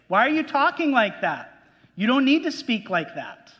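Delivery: put-on a parent baffled by a grown child's gibberish; exasperated parent. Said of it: "what are you gonna say?".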